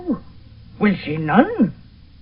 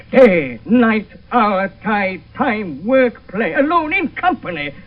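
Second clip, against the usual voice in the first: exasperated rant; 4 dB louder, slower than usual. Acted.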